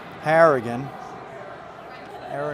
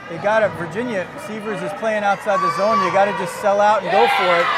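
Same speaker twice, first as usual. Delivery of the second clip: brisk, steady hockey commentary; live play-by-play; 3 semitones higher, 5 dB louder than usual. Real, not acted. Commentator calls the last minute for viewers, steady play-by-play. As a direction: keep up with the puck as it moves.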